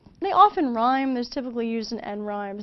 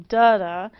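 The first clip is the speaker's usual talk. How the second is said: "da-da" with the first da stressed and louder; trochee rhythm; 8 dB louder than usual. Shown as a demonstration. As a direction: tap out a trochee, strong then weak. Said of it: "a stressed syllable followed by an unstressed".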